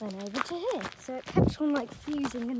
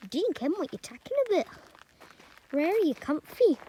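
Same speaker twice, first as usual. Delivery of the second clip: hammed-up mock Scottish accent, higher and louder; bad Scottish accent; 6 semitones higher, 5 dB louder than usual. Shown as a demonstration. Vlogger tries a Scottish accent for viewers, hammed-up Scottish. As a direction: throw on a terrible Scottish accent for a laugh. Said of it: "say if my Scottish accent is good".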